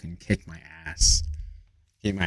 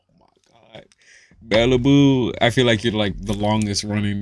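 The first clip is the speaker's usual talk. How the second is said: excited greeting; 3 semitones higher, 7 dB louder than usual. Retold or imitated. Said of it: "I'm like".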